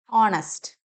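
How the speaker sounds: ഓണസ്റ്റ് as "ON-ust", starting on O; silent H. Shown as a demonstration. Teacher models the word, silent H. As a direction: open ഓണസ്റ്റ് straight on the vowel. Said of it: "എച്ച് silent ആണ്".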